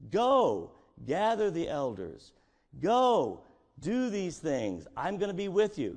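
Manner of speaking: loud, ringing "Go"; commanding God. Acted. God sending Moses, loud command. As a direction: send him off with force.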